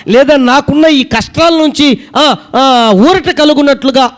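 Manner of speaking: a hint of a humble believer praying; mock pleading prayer. Voices the congregation's prayer. (దేవుని వేడుకునే ప్రార్థన స్వరం)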